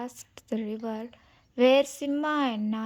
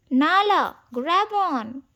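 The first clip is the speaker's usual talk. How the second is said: louder call across the river; yelling; 5 semitones higher, 5 dB louder than usual. Acted. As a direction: shout to a friend in the water. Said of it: "Simba yelled".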